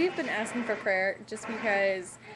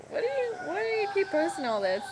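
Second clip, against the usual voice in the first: higher, a bit louder exasperated question; mock annoyed friend; 10 semitones higher, 4 dB louder than usual. Friends complaining about her baby posts: mock exasperated. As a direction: lightly play a fed-up friend.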